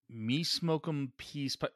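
slow, stilted mock chief voice; grudging clichéd chief line; mock stereotype chief. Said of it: "this better get a lot cleaner".

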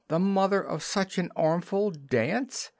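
high, indignant-style exclamation; crying out. A narrator's reading. Wendy protests at the idea of dancing, crying out. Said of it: "cried Wendy".

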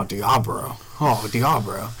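lightly imitated Asian accent on "Diablo"; mock Asian accent. Brother joking at GameStop, mock Asian accent. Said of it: "making fun of Asian people".

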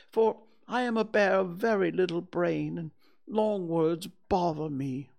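high-pitched bear of little brain; Pooh, apologetic. Acted. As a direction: explain yourself as a simple, bothered bear.

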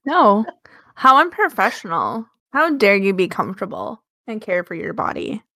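lightly voiced entitled Karen; a hint of an indignant Karen. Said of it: "The extreme level of Karen that I brought to that".

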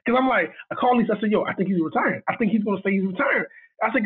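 high-pitched retold mild panic; freaking out. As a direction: relive being worked up, pitch climbing. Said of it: "And now I am freaking".

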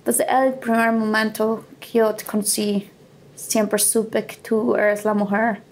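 imitating a slow, effortful recited declaration; slow halting recital. Boyfriend proposing on a beach rock in Spanish, slow and halting. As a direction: drag each word out like a labored speech.

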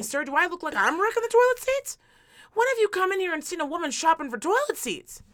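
worked-up, indignant protest; exasperated pleading. Retold or imitated. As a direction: plead your case in mock disbelief. Retold exasperated plea to store worker.

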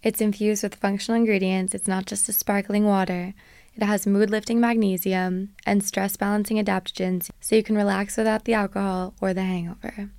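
bright, punchy sponsor read; upbeat ad read. Acted. Host reading a sponsor ad to listeners, upbeat and punchy. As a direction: sell it like a radio spot. Podcast ad read over music.

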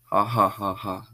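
evil laugh. A narrator's reading. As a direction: cackle like the culprit. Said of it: "laughs Jason".

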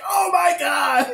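high, drawn-out cry; mock horror. Reacting to a nightmare skull smile, hammed-up horror. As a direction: wail it in exaggerated dismay. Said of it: "I'm like".

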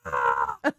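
mock frightened gasp. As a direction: gasp as if startled, played for laughs. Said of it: "I'm screaming".

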